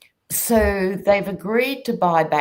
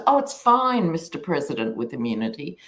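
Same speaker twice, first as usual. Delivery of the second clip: mock appeasing; faster than usual. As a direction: placate him with mock deference. Voicing a compliant court to the President.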